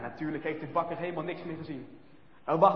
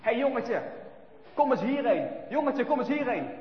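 calling out; 4 semitones higher than usual. Acted. Boys calling to Brinkie to come over, coaxing shout. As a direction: call the little boy over, falsely friendly. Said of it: "hoor ze roepen".

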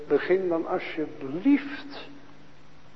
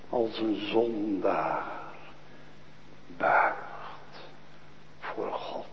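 hushed whisper; 7 semitones lower, 6 dB quieter, slower than usual. Acted. Preacher describing the sinner kneeling, hushed to a whisper. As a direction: drop to a whisper on buigt voor God. Sinner bowing before God.

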